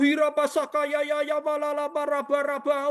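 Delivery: high, rapid chanting syllables, mocked; hammed-up speaking in tongues; imitating tongues-speaking. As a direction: rattle off babbled syllables high like someone praying in tongues. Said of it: "Yang bisa berbahasa roh".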